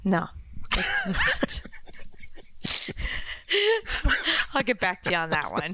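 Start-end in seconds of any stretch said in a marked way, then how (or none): 1.6-4.5 long amused laugh, starting breathy. Real, not acted. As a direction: laugh it off after being caught out. Caught out, laughs before answering.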